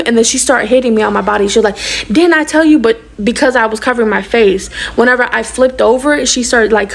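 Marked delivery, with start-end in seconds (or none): 2.1-2.8 raised-pitch mock scolding; scolding mother. Mother hitting her daughter, imitated scolding. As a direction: imitate a mom telling off her kid.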